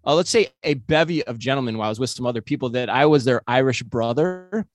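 storytelling in a put-on Irish brogue; fake Irish accent. Co-host tells Ann his Irish brother story in a fake Irish accent. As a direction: spin a yarn as a mock Irishman, Irish accent. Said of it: "he's got an Irish accent all of a sudden".

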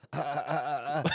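nervous laughing stammer. Retold or imitated. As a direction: stall with laughing uhs. Stammering in front of customs agent.

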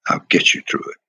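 the promise repeated in a near whisper. Retold or imitated. Willie Davis reassuring young Bill, whispered again. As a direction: breathe it again under the voice, no tone.

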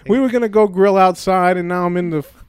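loud, put-upon mock complaint; mock indignation. Griping to podcast partner about being stuck indoors, mock indignant. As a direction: gripe loudly, playing up the outrage. Mock quarrel over where they record.

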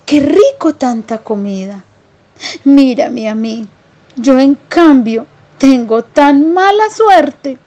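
high, whimpering little mouse marvelling at food; amazed country mouse. Acted. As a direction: squeak out wonder and self-pity, slowly. (ratoncito campesino maravillado, voz aguda y llorosa)

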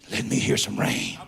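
very low, breath-only plea; whispered. Acted. Preacher repeats God's word of rain, whispered. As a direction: drop suddenly to a whisper. Hushed line after loud preaching.

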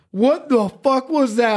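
high, shocked cry of disgust, imitated; a cousin who just spat out awful meat; mock-shocked yelp at a foul bite. Cousin spits bear meat out.

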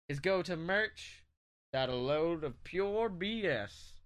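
smooth announcer read, slow and low. Pretend. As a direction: read it like a cheesy TV ad. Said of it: "I just turned into a Schmucker's ad".

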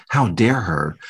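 mock-affronted, understated anger; retold anger. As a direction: re-enact a touch of angry outrage. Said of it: "I was so angry".

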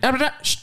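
high-pitched gibberish cut off by a shush; quick high babble, then "shh"; mock shushing. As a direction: imitate a dismissive babble and shush. Imitating a teacher brushing someone off.

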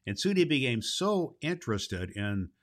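put-on steady storybook reading for children; story narration. A narrator's reading. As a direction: read the chapter aloud to the kids. Reads the Baum story aloud.

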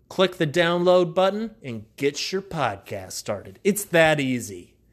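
loud, upbeat sponsor pitch; ad read. Acted. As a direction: sell it like a radio spot. Host reads podcast sponsor ad.

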